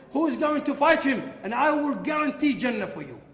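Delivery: loud, high rallying cry; the Prophet calling for a volunteer; urgent call. Retold or imitated. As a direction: rouse the hesitant crowd to step forward. Prophet calls for a fighter.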